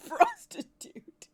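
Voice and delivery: loud, slow, high mock shout; comic blurt; drawn-out yell. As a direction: stretch it out in a silly yell.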